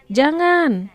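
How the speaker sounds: jangan called out high and loud, falling; a firm high forbidding shout; exclamation. Shown as a demonstration. Teacher models an exclamation for pupils, loud and high. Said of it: "Gunakan intonasi yang benar ya".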